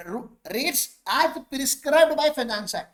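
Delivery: reads the statute line very slowly and deliberately; slow reading. Shown as a demonstration. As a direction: quote the act word by word, very slowly. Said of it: "उसमें लिखा है".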